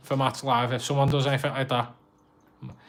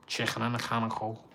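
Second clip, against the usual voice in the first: Scouse accent; 2 semitones lower, 6 dB quieter, faster than usual. Shown as a demonstration. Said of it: "Did the Scouse thing".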